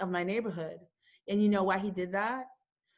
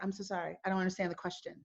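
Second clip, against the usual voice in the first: soft, polite confusion, retold; polite reply; 3 semitones lower, 9 dB quieter, much faster than usual. Driver answering the cops who pulled her over, softly polite. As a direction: keep it soft and apologetic.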